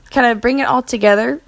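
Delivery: talking through hiccups; words broken by small hiccups. Real, not acted. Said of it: "Sorry, I have the hiccups".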